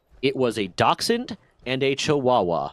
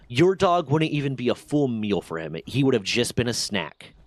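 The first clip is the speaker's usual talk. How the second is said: calm telling-off. Retold or imitated. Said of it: "So I very calmly say".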